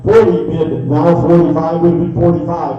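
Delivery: rolling rhythmic auction chant; auctioneer. Real, not acted. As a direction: rattle off the bids in a steady chant. Live auction bid calling.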